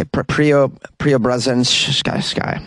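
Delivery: slow halting attempt at Preobrazhenskaya; struggling pronunciation. Real, not acted. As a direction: sound out Preobrazhenskaya slowly, stumbling. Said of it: "I think I nailed it".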